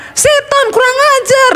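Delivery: very high squawking parrot, laughing through it; parrot cursing. Acted. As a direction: squawk the insult like a cheeky parrot. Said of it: "dia bilang". (beo memaki dengan suara sangat tinggi sambil tertawa)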